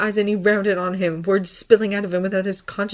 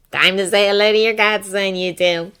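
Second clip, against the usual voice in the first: louder, proud announcement; beaming announcement; 2 semitones higher, 8 dB louder than usual. A narrator's reading. Dora presenting the baby to his godfather, beaming announcement. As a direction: announce it happily to both. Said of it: "she announced".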